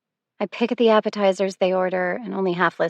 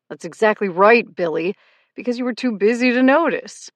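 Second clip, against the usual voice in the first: angry retort; 4 semitones higher, 8 dB louder than usual. A narrator's reading. Ex firing back in quarrel.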